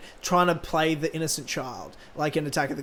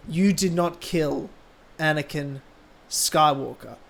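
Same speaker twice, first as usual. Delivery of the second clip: slow, measured, sinking low; deliberate, quiet villain pacing; Vader; 3 semitones lower, 3 dB quieter, slower than usual. Acted. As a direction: space it out, pausing before each name. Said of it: "saying it like Vader would say it".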